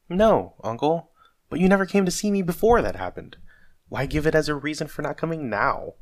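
high, loud, urgent appeal; exasperated but earnest plea; protesting. Acted. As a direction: argue back, pitched well up. Nephew protests the dismissal.

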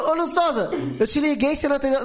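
laughing mimic of friends shouting his name; mock fans calling out. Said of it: "os caras falaram".

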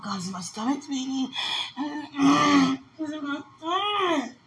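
high, tearful wailing; crying. Real, not acted. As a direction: sob out the pain in the stomach. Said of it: "She know I'm crying".

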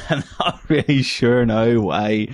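giggling through the words; laughing. Real, not acted. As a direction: laugh while you talk.

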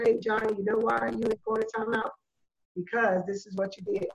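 put-on calm child-level talk. Shown as a demonstration. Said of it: "You get on the child's level".

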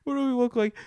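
incredulous. Real, not acted. Comic asks the audience, squealing in disbelief. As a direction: shriek it in disbelief.

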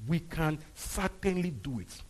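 slow, emphatic declaration; voice of faith. Acted. Preacher repeats the verse for the church, slow and sure. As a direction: declare it with firm conviction. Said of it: "That's the voice of faith".

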